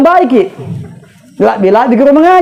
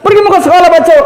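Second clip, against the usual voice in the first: excited; 4 semitones higher, faster than usual. Retold or imitated. Child eager for school.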